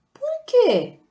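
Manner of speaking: Por quê jumps very high and loud, then falls; high surprised question. Shown as a demonstration. Teacher acting out the example question, high and loud. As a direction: ask Por quê with a big high leap. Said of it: "O gato mia?".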